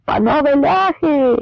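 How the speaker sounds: high, drawn-out shouted taunt; mocking call. Kremeznyi calling out to the Poles, in a high mocking shout. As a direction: hail the enemy with a sneer. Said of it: "закричав Кремезний".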